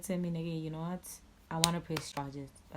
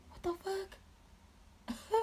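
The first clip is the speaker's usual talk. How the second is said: soft, drawn-out whisper; whispered disbelief; 5 dB quieter, much slower than usual. Real, not acted. Storyteller stunned by the cops' response, whispered disbelief. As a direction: breathe it out slowly, without voice.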